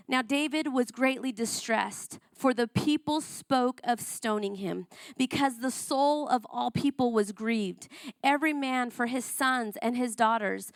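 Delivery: a preacher reading a Bible passage to the congregation; scripture reading. Acted.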